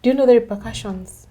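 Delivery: stern bishop. Retold or imitated. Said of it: "the bishop asks him".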